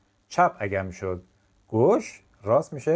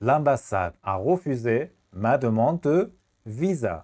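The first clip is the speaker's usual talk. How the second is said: a slightly brisker slow repeat; slow classroom repeat; much slower than usual. Shown as a demonstration. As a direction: say it once more, slowly.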